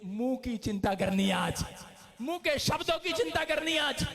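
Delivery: high, loud shouted sermon; fiery preaching. Acted. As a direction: drive it home to the church. Preaching at full force.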